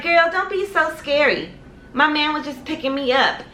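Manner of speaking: high-pitched, put-on sassy scolding; imitated chiding girlfriend. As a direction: play the girlfriend brushing it off. Girlfriend chides her, voiced.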